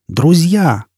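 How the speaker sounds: drawn-out orator's address; heartfelt oration. A narrator's reading. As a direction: open a grand speech with feeling. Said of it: "проникновенно обозвал Формайл".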